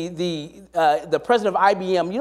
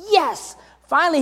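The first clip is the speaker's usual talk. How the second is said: triumphant yes; 8 semitones higher than usual. Retold or imitated. Cheering the leader's rebuke.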